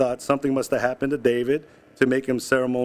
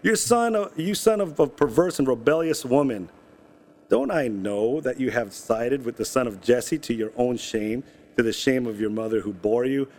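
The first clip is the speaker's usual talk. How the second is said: sharp raised rebuke from a furious father; angry king; 2 semitones lower than usual. Acted. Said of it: "Saul's anger flared up at Jonathan".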